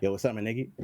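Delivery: "niggy" tossed off in passing with an EE ending; quick, casual greeting, no weight on "niggy"; sped up a little. Shown as a demonstration. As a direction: demonstrate a natural, passing "niggy". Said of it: "speed it up a little bit".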